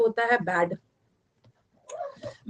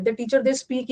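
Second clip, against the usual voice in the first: slow dictation; much slower than usual. Shown as a demonstration. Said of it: "dictation test में teacher क्या बो".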